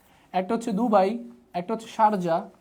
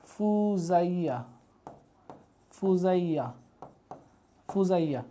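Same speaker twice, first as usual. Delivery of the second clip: drawn-out "ফুজাইয়া", very slow; slow dictation; 4 dB quieter, slower than usual. Shown as a demonstration. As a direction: stretch the name out slowly for note-takers. Teacher dictating a new name slowly. (টেনে টেনে ধীরে উচ্চারণ)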